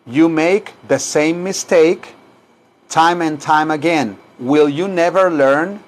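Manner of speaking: measured, phrase-by-phrase model sentence; model for repetition. Shown as a demonstration. Teacher models the English sentence for students, measured. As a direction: say it in separate chunks for learners. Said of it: "Repitan aquí".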